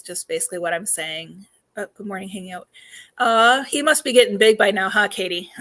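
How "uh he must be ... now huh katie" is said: losing her voice mid-sentence; hoarse voice. Real, not acted. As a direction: voice giving out, a bit hoarse. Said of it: "losing my voice all of a sudden".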